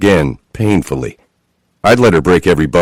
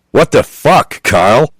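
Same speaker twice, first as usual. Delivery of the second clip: mock yell; 7 semitones higher than usual. A narrator's reading. Repeating Chloe's outburst.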